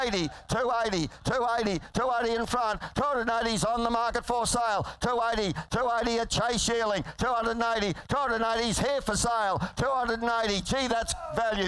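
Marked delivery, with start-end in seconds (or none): 0.0-10.6 rapid rolling auctioneer chant; frantic trading floor shouting. Real, not acted. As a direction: rattle off the bids like an auctioneer. Auctioneer calling bids.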